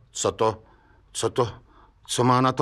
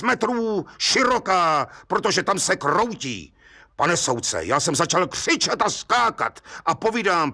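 lightly voiced Hejda, eager storyteller. Hejda eagerly recounts the case to the judge, lively. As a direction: tell the judge the whole tale with relish.

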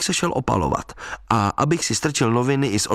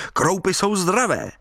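high-pitched merry call; cheerful call; 8 semitones higher than usual. A narrator's reading. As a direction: sing out cheerfully, pitch well up. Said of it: "volal jsem vesele".

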